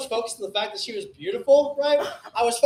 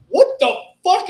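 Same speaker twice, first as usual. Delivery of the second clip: loud, high, drawn-out disbelief; shocked outburst; 9 semitones higher, 9 dB louder, slower than usual. Retold or imitated. Comic voicing the guy watching him eat it, shocked. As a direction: imitate a man whose mind is blown. Acting out the stunned onlooker.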